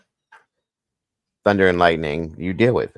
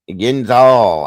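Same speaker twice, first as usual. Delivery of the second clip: Pittsburgh yinz, higher and louder; Pittsburgh accent; 6 semitones higher, 9 dB louder than usual. Retold or imitated. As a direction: say it like a Yinzer. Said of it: "I love it when she says it".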